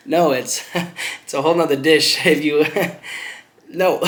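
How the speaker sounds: loud, high, laughing disbelief; laughing refusal. Retold or imitated. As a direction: refuse while cracking up. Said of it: "I'm just laughing at him".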